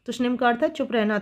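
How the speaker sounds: quick teacher's repeat. Shown as a demonstration. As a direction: rattle the definition off quickly for emphasis.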